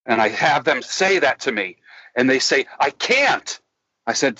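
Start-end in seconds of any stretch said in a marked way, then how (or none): 2.8-3.6 higher-pitched mock protest; high, falling little refusal; helpless protest. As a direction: imitate a reluctant client. Acting clients who refuse.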